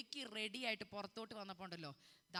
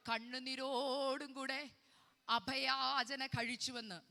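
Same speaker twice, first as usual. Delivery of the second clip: very slow, drawn-out verse reading; slow recitation for repeating; 3 semitones higher, 6 dB louder, much slower than usual. Shown as a demonstration. Preacher leads congregation through the verse, slow drawn-out recitation. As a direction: draw out each word for the congregation.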